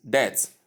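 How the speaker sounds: "debt" as det, no b; silent B. Shown as a demonstration. Teacher modelling word number nine, debt with silent B. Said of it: "You omit the letter B".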